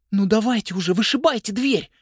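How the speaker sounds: высокий нетерпеливый голосок, умоляет; торопит, упрашивает выбить дверь; мольба. A narrator's reading. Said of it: "взмолилась Нелл". (мышка Нелл умоляет тётю выбить дверь)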